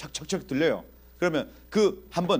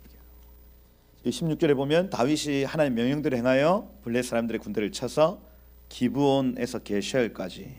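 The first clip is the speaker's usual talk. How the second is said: ordinary delivery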